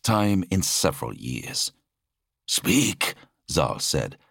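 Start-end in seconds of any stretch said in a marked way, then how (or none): 2.5-3.1 high-pitched order; curt command. Acted. Zal demands an explanation from his brother, commanding. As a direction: order him to talk, pitched up.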